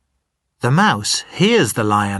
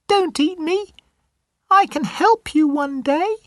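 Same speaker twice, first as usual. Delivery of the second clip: much higher, tiny mouse voice; squeaky little mouse. Acted. The little mouse apologizing to the lion, in a high squeaky voice. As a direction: play the timid mouse, high and small.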